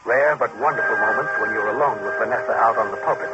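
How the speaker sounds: steady narrator voice over music; story narration. A narrator's reading. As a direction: narrate it like radio drama. Second-person story narration.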